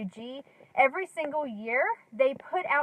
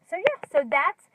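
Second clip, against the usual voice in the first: out of breath; 3 semitones higher, 3 dB louder than usual. Real, not acted. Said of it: "Sorry I'm out of breath".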